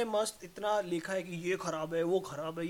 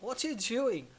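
put-on American accent; 4 semitones higher, much slower than usual. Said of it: "accent कैसे change हो गया".

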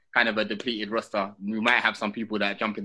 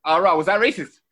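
put-on posh BBC accent; 7 semitones higher, 7 dB louder than usual. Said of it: "Moving a bit B B C over there, mate".

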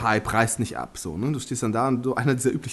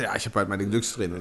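a hint of a gruff sailor, lower; lower lightly voiced sailor; 7 semitones lower, 6 dB quieter than usual. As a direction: answer as a card-playing sailor, low. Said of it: "quoted dialogue".

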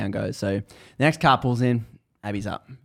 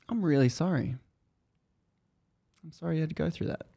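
softer, slightly higher voice of sympathy; kindly; 4 semitones higher, 7 dB quieter, faster than usual. Retold or imitated. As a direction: imitate a gentle, heartfelt apology. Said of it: "looks at her very kindly and she says".

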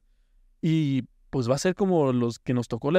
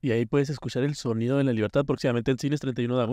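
movie trailer voice; 6 semitones lower than usual. Acted. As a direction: announce it like a film trailer. Fake movie announcement.

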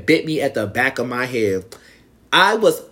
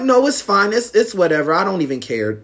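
high-pitched protest; 6 semitones higher than usual. Retold or imitated. Arguing with drunk mother, high pitch.

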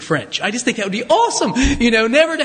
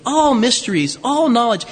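all punched each time; stress on all. Shown as a demonstration. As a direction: hit all in both phrases. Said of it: "notice the emphatic".

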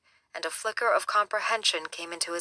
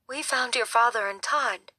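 gently; 5 semitones higher than usual. Acted. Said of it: "she said gently".

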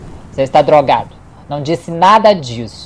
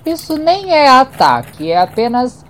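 defiant; 7 semitones higher than usual. Acted. Defiant raised retort.

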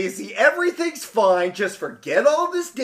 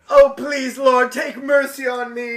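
pleading; 4 semitones higher than usual. Acted. Pleading for mercy.

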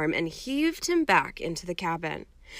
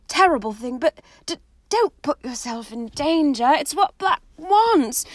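put-on higher, earnest girl's voice, begging him; Hermione pleading; 4 semitones higher, 5 dB louder than usual. Hermione begs Harry not to hunt Black, high and pleading. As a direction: talk him out of danger, anxiously.

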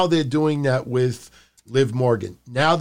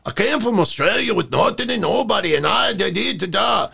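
badly faked Australian promo voice, pitched up; mock Australian accent; 4 semitones higher than usual. Host imitating any wrestler with the same promo, rough Australian accent. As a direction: attempt an Australian accent, trailing into filler syllables. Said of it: "I can't do those voices".

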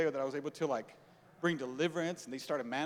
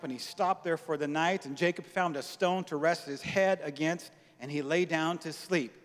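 louder, measured reading; scripture reading; 4 dB louder than usual. Acted. Pastor reading Genesis to congregation, measured. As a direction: read the verse with weight.

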